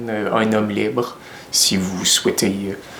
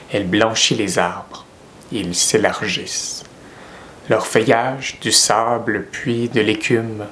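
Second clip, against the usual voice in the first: measured poem reading with pauses between lines; poem recitation. Acted. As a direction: recite the verse line by line, unhurried.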